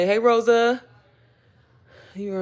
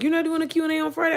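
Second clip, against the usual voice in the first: quoting viewer; 9 semitones higher, faster than usual. Retold or imitated. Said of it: "people hit me up and was like".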